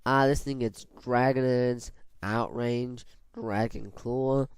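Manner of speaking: slow, drawn-out move listing; slow talking. Real, not acted. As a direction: list the moves slowly, dragging some names. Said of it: "I'm talking so slow right now".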